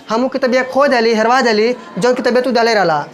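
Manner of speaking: everyday Bhojpuri dialect phrasing. Shown as a demonstration. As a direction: say it in colloquial Bhojpuri. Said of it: "मतलब भोजपुरी में".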